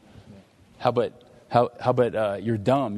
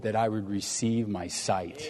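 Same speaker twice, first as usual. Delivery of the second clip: earnest plea; 4 semitones lower, 6 dB quieter than usual. Acted. Blind man's earnest plea voiced.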